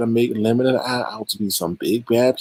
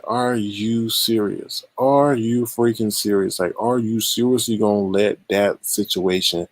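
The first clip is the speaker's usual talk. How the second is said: incredulous. Retold or imitated. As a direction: drag out each question in disbelief. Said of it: "the things I heard today was just like".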